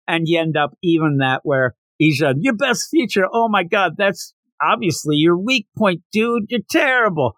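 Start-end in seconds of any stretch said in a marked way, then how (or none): 2.4-7.3 high, incredulous teasing; mocking scorn. Teammate ridiculing the slugger's best feature, high mocking scorn. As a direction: scoff at him, pitched up.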